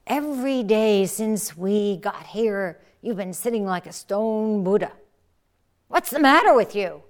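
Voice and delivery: teacher shouting at a rigid fellow monk; shouted rebuke. Acted. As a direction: shout him awake from his sitting.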